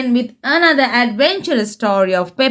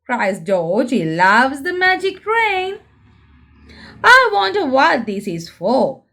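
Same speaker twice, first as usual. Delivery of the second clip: lively storybook reading for little ones; reading to children. A narrator's reading. Presenter reading a Peppa book aloud to young viewers, lively storybook voice. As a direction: read it like a bedtime picture book.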